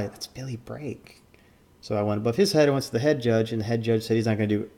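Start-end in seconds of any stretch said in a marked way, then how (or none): 0.0-1.2 slow, hushed mock Asian accent; put-on Asian accent. Judge explaining who the player is, hushed put-on Asian accent. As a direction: draw it out softly in an imitated Asian accent. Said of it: "I just talk in accents".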